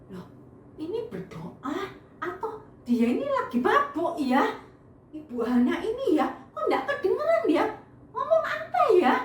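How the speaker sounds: a bemused priest chuckling at what he sees; puzzled priest voice. Acted. Priest Eli puzzled, voiced by teller.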